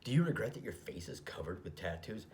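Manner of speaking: mild whispered demon taunt; demon speaking. Acted. Demon mocking Thomas about his tattoos. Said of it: "this is the demon speaking again".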